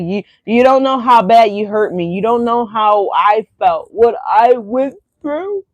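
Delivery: mild tearful pleading, building; mock crying. Hurt ex telling Leo off, mildly mock-tearful. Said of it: "they're crying".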